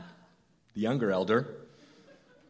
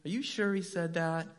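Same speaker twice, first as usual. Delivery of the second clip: sly serpent; 6 semitones higher than usual. Acted. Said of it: "and he says".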